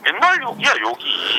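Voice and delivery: fed up, nearly shouting back; exasperated. Real, not acted. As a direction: pitch jumps up in exasperation. Complains about constant swearing.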